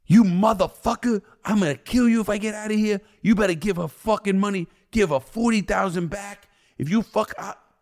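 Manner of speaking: furious yell at the crooked lawyer over the phone; furious shout. Retold or imitated. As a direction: yell at the lawyer like you want him dead.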